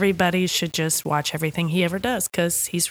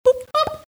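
little imitated dollop noise; playful boop. Shown as a demonstration. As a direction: drop two light boops, like dollops on a latte.

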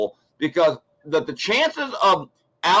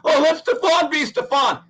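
high, louder mock voice of the critics; 10 semitones higher, 4 dB louder than usual. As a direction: sneer it like a naive fan. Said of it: "I know people are gonna say".

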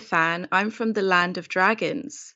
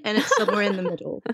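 quick words with a laugh; much faster than usual. Real, not acted. Guest describing the crazy show, laughing quickly. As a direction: rush it out laughing.

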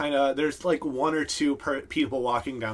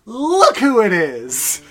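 high, loud, slow delighted cry; excited orc woman; 9 semitones higher, 10 dB louder, slower than usual. Acted. Orc woman greeting Third Eye, loud and delighted. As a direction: greet an old friend at full volume. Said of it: "the woman orc goes".

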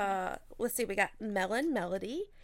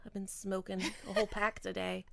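raspy voice; 6 dB quieter than usual. Real, not acted. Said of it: "my voice is a little raspy".

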